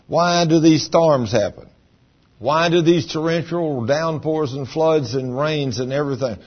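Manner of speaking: mock the complainer's rising outrage; doubting complainer. Preacher voicing a skeptic who blames God, mock indignant. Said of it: "Somebody would say".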